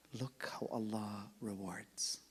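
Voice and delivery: slow, soft unvoiced whisper; awed whisper. Real, not acted. Preacher marvelling at Allah's reward to the crowd, whispering. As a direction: let the wonder hush you.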